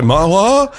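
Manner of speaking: high mock-tearful question; retold crying. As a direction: imitate yourself tearing up. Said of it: "I started crying, like, immediately".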